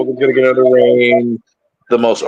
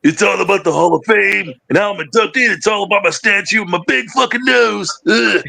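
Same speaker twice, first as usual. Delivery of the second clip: put-on higher, sloppy drunken boast; belligerent drunk; 5 semitones higher than usual. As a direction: brag like a drunk.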